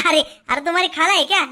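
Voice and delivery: awkward laugh around the words; acted laughing. Asking if it is his aunt, laughing it off. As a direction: laugh off the mistake.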